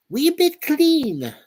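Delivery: high, slow mock Scottish lilt; mock Scottish accent. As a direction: stretch it out high in a put-on Scottish voice. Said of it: "Not my best accent".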